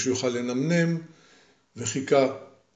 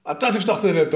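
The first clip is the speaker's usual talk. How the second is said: insistent; 5 semitones higher, faster than usual. Acted. Giant insists back.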